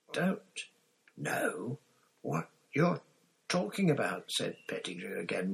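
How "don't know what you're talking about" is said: very shrill. A narrator's reading. Pettigrew denying to Black, shriller and higher. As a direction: squeak it out in a panic, way up high. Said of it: "more shrilly than ever".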